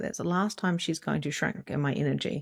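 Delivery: plain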